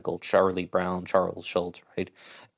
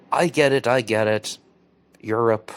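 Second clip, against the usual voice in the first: emphatic; 3 semitones higher, 6 dB louder than usual. Real, not acted. Emphatic concession.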